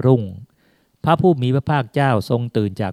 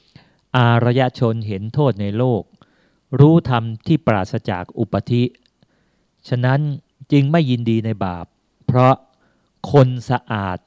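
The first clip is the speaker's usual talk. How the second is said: solemn utterance. Acted. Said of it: "ทรงเปล่งอุทานขึ้นว่า".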